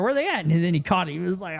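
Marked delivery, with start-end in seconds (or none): 0.0-0.4 teasing. Retold or imitated. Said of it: "trying to make fun of him".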